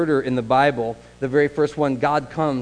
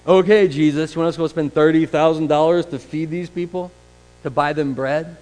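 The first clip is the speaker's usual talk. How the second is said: sarcastic; 5 dB louder than usual. Retold or imitated. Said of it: "a little sarcastic almost".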